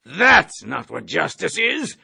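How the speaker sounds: slow, mocking retort; jeering. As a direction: sneer it down at the cadet. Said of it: "the colonel jeered".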